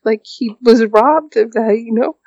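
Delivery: sorry to husband, a teary high plea; tearful apology. Retold or imitated. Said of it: "I just remember telling him".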